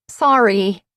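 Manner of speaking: loud call across the woods. A narrator's reading. Cat calling from the trees, loud apology. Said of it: "Cat called out".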